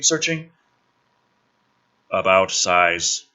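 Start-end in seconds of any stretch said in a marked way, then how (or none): 2.1-3.2 mock broken translator. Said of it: "the translator, searching, searching".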